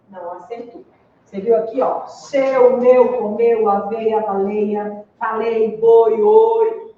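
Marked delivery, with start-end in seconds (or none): 1.8-6.9 "seu, meu, comeu" and "boi, oi" said with closed e and o, louder; closed diphthongs. Shown as a demonstration. Teacher listing example words to students, closed vowels stressed. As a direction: spell out each closed vowel in "aveia, baleia, falei". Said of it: "todos têm som fechado".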